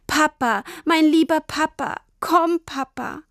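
put-on a frightened girl weeping for her papa; crying out for Papa. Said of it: "weinte sie".

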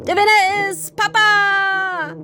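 high, loud, slow victory cry; triumphant cheer. Acted. Papa throwing his arms up, cheering his own victory. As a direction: crow the win to the whole forest.

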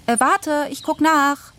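put-on high, bright child's voice; feigned innocence. A narrator's reading. Daughter stalls her father, high and feigned innocent.

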